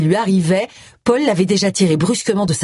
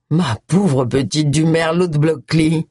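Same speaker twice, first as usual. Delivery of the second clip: slow, drawn-out patronizing pity; slow, lofty disdain in a put-on voice; condescending; 2 semitones lower, slower than usual. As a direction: look down on her choice of wine. Snob sneers at her local wine.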